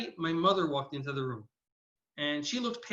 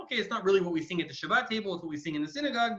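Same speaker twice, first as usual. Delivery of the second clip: inner thought; faster than usual. Retold or imitated. Host privately reasoning about his guest's song choice, quick inner thought. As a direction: think it through fast, as an aside. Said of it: "Dan thinking to himself".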